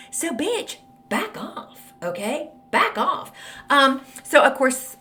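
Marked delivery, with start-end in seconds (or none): 0.1-3.3 higher, sassy back off; snarky. Retold or imitated. Author telling critic to back off, snarky high retort. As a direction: sass her off, snippy and high. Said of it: "I answered her very snarkily".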